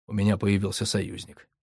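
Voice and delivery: usual speaking voice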